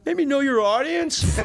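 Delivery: high, drawn-out sarcastic comeback; mock-incredulous retort. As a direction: spell it out slowly and high to an oblivious canvasser. Retorts to clipboard canvasser, acted.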